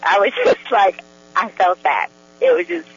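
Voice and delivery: joyful gushing with laughs breaking in; real joy. Real, not acted. Guest recounts her own experience to host, joyful. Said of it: "you can hear the joy in her voice".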